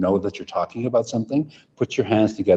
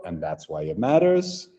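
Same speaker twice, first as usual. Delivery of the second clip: slow; 4 semitones higher than usual. Shown as a demonstration. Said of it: "and now slow".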